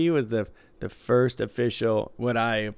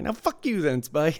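sharp, higher snap of fuck you then; mock angry retort; 4 semitones higher than usual. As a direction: toss off fuck you then as a mild insult. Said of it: "He, like, kept changing it".

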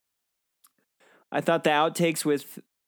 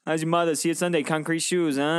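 higher mock Boston tough guy; Boston accent; 4 semitones higher than usual. Bullseye threatening Woody, mock Boston accent. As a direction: play a Boston wise guy. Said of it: "like some guy from Boston".

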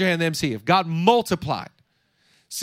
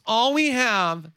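whining; slower than usual. Retold or imitated. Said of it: "the vibe of the disciples".

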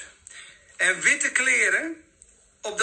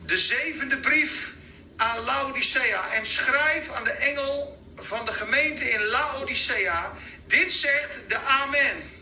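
scripture reading; 5 semitones higher than usual. Acted. Reads scripture aloud.

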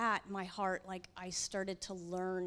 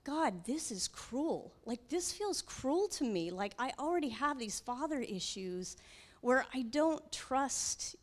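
pained plea; 5 semitones higher than usual. Retold or imitated. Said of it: "the more angrier I'm getting".

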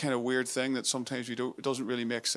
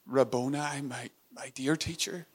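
intimate. Shown as a demonstration. Preacher contrasting rabbi and Rabboni, tender and intimate. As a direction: whisper it to someone your own. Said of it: "the one that I can call my own".

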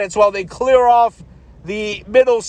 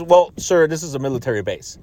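mock soldier; 6 semitones lower than usual. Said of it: "just looks at me and goes".

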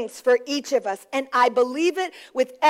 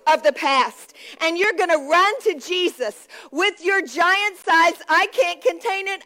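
emphatic preaching with punched key words; rousing preached declaration; 2 semitones higher than usual. Real, not acted. Preacher calls congregation onto their feet, rousing and emphatic. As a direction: proclaim it to rally the room.

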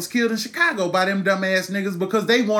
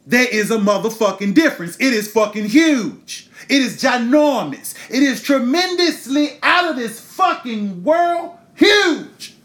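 loud, climbing higher with each repeat, slowing down; escalate, stretch the final huge; furious emphasis building to a peak; building shout; 4 semitones higher, 4 dB louder than usual. Real, not acted. Escalating rant about difference.

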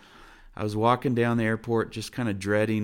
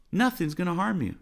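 raised, emphatic restatement; preacher hammering the point home; emphatic repeat; 8 semitones higher than usual. Acted. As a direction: drive the promise home.

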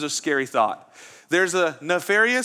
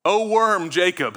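loud, higher proclamation of "O worm"; booming God voice; 4 semitones higher, 6 dB louder, slower than usual. Retold or imitated. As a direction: call down from on high, half amused. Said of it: "he says".

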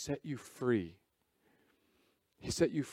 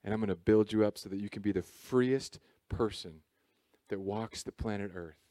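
God speaking; 3 semitones lower than usual. Acted. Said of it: "And he said".

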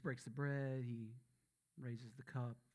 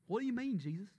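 put-on dumb southern accent; 9 semitones higher, 6 dB louder than usual. Pastor voicing confused disciples, mock southern accent. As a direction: act stupid with a thicker southern accent. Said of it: "My accent gets more southern when I act stupid".

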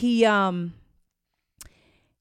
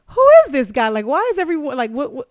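retold confusion; 6 semitones higher, 8 dB louder, faster than usual. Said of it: "I'm like".

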